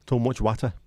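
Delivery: lightly voiced Lincolnshire Guy Martin; a hint of Guy Martin's northern twang; Guy Martin impression. Streamer imitating Guy Martin for chat. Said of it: "Guy Martin says that all the time".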